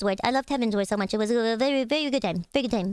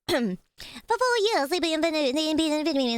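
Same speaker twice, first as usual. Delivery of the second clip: dramatic retelling; 4 semitones higher than usual. Pretend. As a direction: stretch it out for effect. Restarts dramatic ant rant.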